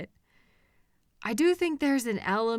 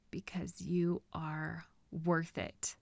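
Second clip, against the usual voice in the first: slow, soft unvoiced whisper; 4 semitones lower, 10 dB quieter, slower than usual. Captor whispering devotion to the captive, slowly. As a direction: breathe it close and slow.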